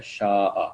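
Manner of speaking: شاء as shaa-a, long aa replacing the y; changed form shown. Shown as a demonstration. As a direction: say شاء with a long alif and final a. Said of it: "اس کو الف سے change کرنا پڑتا ہے". (شاء میں یا کی جگہ لمبا الف)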